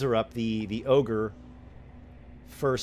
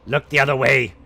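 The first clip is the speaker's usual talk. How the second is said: louder snapping command; hobgoblin order; 3 semitones higher, 10 dB louder than usual. Acted. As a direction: snap the order at them. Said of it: "one of the hobgoblins says".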